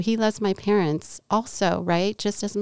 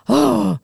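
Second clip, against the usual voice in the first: huffing sigh; 3 semitones higher, 5 dB louder than usual. Retold or imitated. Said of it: "huffing and puffing".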